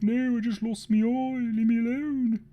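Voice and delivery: a cartoon orc telling them to leave him alone; grumpy orc. One-eyed orc answering the mocking orcs: high, loud, huffy. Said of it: "You'd be like".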